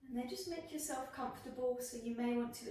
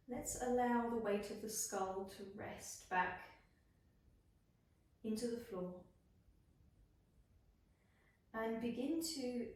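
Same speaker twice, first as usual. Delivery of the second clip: unhurried body-scan voice with long pauses; guided meditation. Acted. Yoga teacher guiding students through a body scan, guided meditation. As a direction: lead them gently into rest, phrase by phrase.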